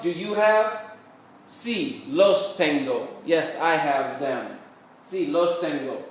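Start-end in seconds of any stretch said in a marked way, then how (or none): 1.5-3.1 slow, word-by-word Spanish; slow model answer. Shown as a demonstration. Teacher answering the practice question for students, slowly, word by word. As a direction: separate the words for learners, unhurried.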